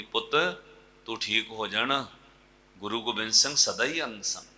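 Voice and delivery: tender comfort. Acted. Woman comforting blind son.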